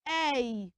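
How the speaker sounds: "a" as a long AY, no T. Shown as a demonstration. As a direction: say "a" like the letter A. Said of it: "you pronounce them as".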